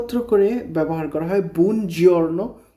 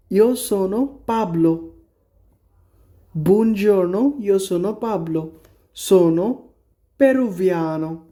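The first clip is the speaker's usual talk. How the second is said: lightly voiced Pablo greeting; teacher reads Pablo introducing himself; reading dialogue. Shown as a demonstration. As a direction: read Pablo's line cheerfully. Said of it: "Pablo বলতেছে".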